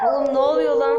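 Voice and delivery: high-pitched, loud yell; real shouting. Real, not acted. Player shouting at what happens in game, high yell. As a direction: yell it in high, startled protest. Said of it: "Sen kendin bağırıyorsun".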